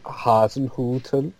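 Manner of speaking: slow, lightly put-on German accent; Rainier Wolfcastle. Shown as a demonstration. Reacting to co-host's prison guard suggestion, playful German accent. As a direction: stretch it out in mock German. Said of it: "I sound like Rainier Wolfcastle there".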